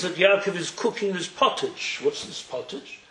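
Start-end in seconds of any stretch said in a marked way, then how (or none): 2.0-3.0 whispered curiosity. Retold or imitated. Esav eyes the pottage.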